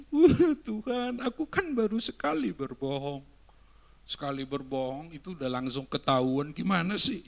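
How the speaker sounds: a kid half-crying to God, hammed-up; whining child. Youngster caught lying whines to God, mock tearful. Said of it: "terus kamu nangis".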